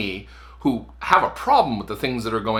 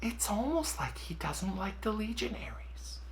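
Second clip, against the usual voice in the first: whisper; 8 semitones higher, 13 dB quieter than usual. Real, not acted. Off-camera aside after sign-off.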